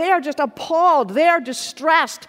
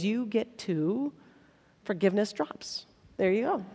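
mock stingy dole; 6 semitones lower, 12 dB quieter than usual. Mocking stingy forgiveness.

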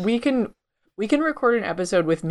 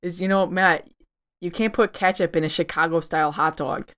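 light mock Chicago accent, warm-up line; lightly put-on Chicago accent, half-joking. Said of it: "warmed up in the Chicago accent".

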